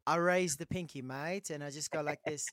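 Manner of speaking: amateur attempt at a British accent; Pommy accent. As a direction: lightly mimic a British tea drinker's accent. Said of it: "this Pommy accent".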